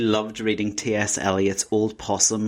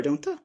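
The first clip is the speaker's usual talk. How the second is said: talking animal. Pretend. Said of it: "Cats purr".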